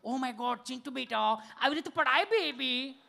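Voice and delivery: slow, sugary mock-mom coo to her baby; mother cooing to her fallen son, slow and sweet; mocking fussy mother. Educated mother coos child.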